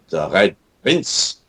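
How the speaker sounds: slow, put-on Russian accent. Creator introducing the Red Prince, Russian accent. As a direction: say it slowly with a heavy Russian accent. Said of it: "a Russian".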